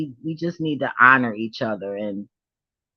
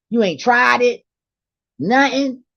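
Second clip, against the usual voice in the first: high, loud disbelief; pitched-up incredulous questions; disbelieving question; 9 semitones higher, 5 dB louder than usual. Retold or imitated. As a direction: ask like you can't believe it.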